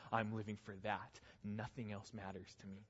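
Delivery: private inner admission. Acted. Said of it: "but really deep in your heart".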